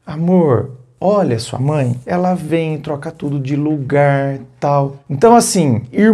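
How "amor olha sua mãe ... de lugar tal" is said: gentle coaxing. Shown as a demonstration. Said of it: "É você falar".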